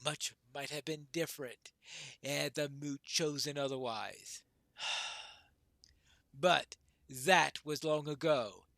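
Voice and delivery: measured storytelling, firming at the end; lightly voiced veteran dwarf. Old dwarf recalls the last moot, lightly solemn. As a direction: recount old battles in a lightly acted voice.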